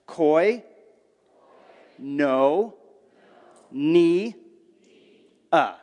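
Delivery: Koi, Ni, A said as separate clipped syllables with pauses; staccato syllables. Shown as a demonstration. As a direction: break Koinonia into single syllables, one by one. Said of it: "I'm gonna pronounce it for you syllable by syllable".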